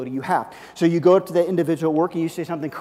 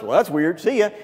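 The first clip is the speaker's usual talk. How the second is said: dismissive; 5 dB louder than usual. Pretend. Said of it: "if the person goes".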